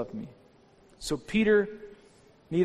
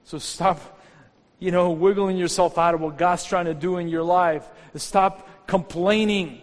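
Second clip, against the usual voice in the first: louder, building preacher's push; forceful exhortation; 2 semitones higher, 5 dB louder than usual. Real, not acted. Pastor urging the congregation to stop complaining, loud and forceful preaching. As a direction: drive the command home to the church.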